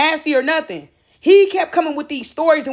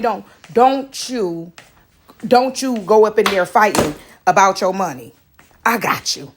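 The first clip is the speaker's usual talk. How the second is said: God's calm words; 6 semitones lower than usual. Retold or imitated. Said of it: "God told me".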